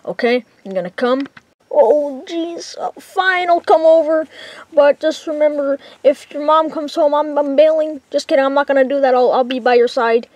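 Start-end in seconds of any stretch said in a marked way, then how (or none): 1.7-10.3 nervous friend voice. Acted. Friend worries on the phone about mom, high nervous voice. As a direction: fret about the mom coming home in a high voice.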